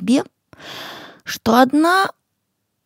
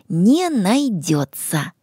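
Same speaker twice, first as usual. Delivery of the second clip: slow and clear; slower than usual. Shown as a demonstration. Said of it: "добавляем последнее слово".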